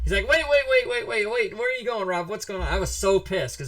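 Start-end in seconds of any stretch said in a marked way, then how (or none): 0.3-2.7 high, loud, urgent calls to stop; frantic pleading. Retold or imitated. Friend chasing the player who stormed out, high frantic pleading. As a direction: chase him down begging him to wait.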